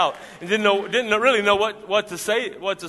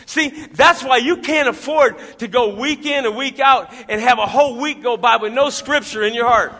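loud, high, driving preacher voice; fired-up sermon delivery; full-force preaching; 7 semitones higher, 11 dB louder than usual. Acted. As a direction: preach it to the congregation, full power.

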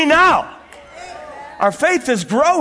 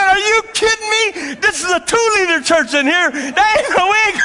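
disbelief; 7 semitones higher than usual. Retold or imitated. Boy told the bottle is shaped like a woman, high disbelief. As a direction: scoff at it in disbelief. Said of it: "I said".

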